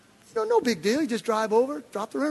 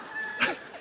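high mocking cackle; shrill devil laugh; 8 dB quieter than usual. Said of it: "And the devil's like".

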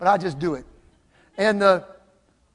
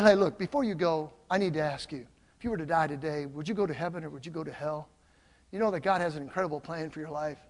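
soft, lowered, sincere voice; earnest appeal; 4 semitones lower, 7 dB quieter than usual. Retold or imitated. Pastor asks worker about heaven before he goes, earnest appeal. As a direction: drop down gently and ask in earnest.

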